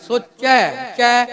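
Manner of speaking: "ਸੋਚੈ" with the final "ai" fully open; full vowel pronunciation. Shown as a demonstration. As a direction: sound the ending "ਚੈ" in full, then repeat it alone. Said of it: "ਮਾਤਰਾ ਪੂਰੀ ਉਚਾਰਨ ਕਰਨੀ". ("ਸੋਚੈ" ਦੀ ਦੁਲਾਵਾਂ ਮਾਤਰਾ ਪੂਰੀ ਖੋਲ੍ਹ ਕੇ)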